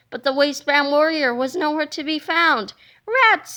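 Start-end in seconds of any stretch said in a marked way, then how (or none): 3.1-3.5 high, loud frustrated rats; disappointed rats. Acted. Boy hiding under a desk, frustrated rats. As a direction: spit it out in frustration. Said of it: "said Melvin".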